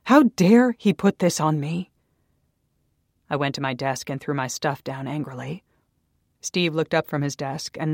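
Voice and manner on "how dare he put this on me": slow, louder, higher outrage; indignant fury. A narrator's reading. Naomi fuming after Daniel's tirade, slow indignant outrage. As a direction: spit out each word in outrage.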